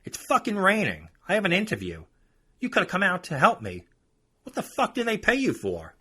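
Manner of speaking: high, loud mock rant; irate customer. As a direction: impersonate her furious complaining. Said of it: "she turns to me and says".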